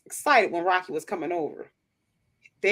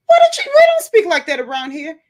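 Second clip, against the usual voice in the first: put-on loud, firm scolding of a toddler; stern mom; 8 semitones higher, 11 dB louder than usual. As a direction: put the little one straight, firmly.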